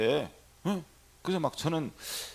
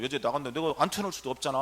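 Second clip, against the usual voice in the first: usual speaking voice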